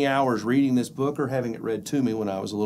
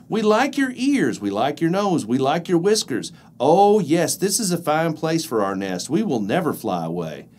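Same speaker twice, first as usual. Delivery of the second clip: bees voice. Acted. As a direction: coo like happy bees. Bees speak in story.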